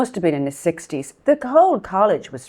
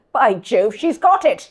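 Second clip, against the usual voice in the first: put-on posh English accent; 2 semitones higher than usual. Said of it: "You were like Eliza Doolittle".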